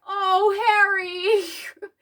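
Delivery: slow, drawn-out choked "Oh, Harry"; half-crying pity for him; mock teary sigh. Fan reacting to Harry, slow and teary. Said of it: "I was like".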